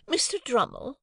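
high, lofty address; haughty lady. A narrator's reading. Missus Pocket addressing Drummle, high and lofty. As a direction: summon the guest grandly.

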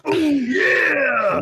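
raspy high shout of oh yeah; hammed-up wrestler catchphrase; Macho Man impression. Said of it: "like, Macho Man".

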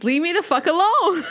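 hammed-up irritated shout; exasperated mock yell. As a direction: snap back as if fed up, played for laughs. Retold quarrel over her phrasing.

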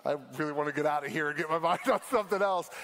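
rushed aside as a mildly freaked-out listener; uneasy listener. Acted. Preacher voicing his uneasy audience, quick and mildly anxious. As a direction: hurry through it like someone wanting out. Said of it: "but now you're like".

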